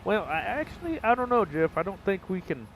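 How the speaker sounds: a high put-on whine of doubt; mock doubt. Mock hesitant reply to Jeff.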